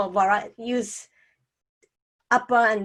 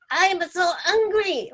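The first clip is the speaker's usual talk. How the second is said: angry demo; 8 semitones higher than usual. Shown as a demonstration. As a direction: pitch jumps up high on so angry. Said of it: "when you get angry, your voice naturally goes up".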